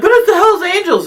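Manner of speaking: high, loud panicked protest; exaggerated wail of dismay; mock alarm. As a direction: imitate frightened women objecting. Frightened women protest in story.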